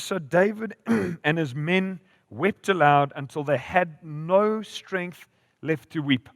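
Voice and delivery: slow, weighty Bible reading; scripture reading. A narrator's reading. Preacher reading of David's men weeping, slow scripture reading. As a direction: draw out each phrase for the congregation. Reads Bible story aloud.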